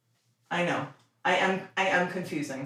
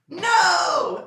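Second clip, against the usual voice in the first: sharp shout; 11 semitones higher than usual. Real, not acted. Owner stopping her dog from snatching a treat, sharp shout. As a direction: stop the dog with a sudden shout. Scolding dog grabbing food.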